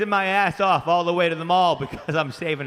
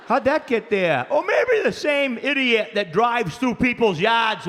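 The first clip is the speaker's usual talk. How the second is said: angry dad; 3 semitones higher than usual. Retold or imitated. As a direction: tear into the son, one word at a time. Dad chewing out his son.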